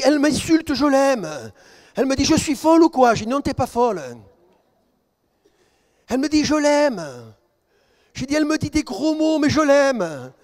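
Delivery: high, loud impassioned sermon; full-force preaching. Acted. Pastor telling his flock a testimony, preaching at full force. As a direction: preach it out with rising fire.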